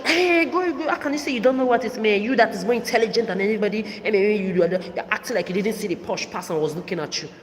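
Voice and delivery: mother scolding her daughter at the bus stop, mock shouting; retold shout. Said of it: "It was when she shouted".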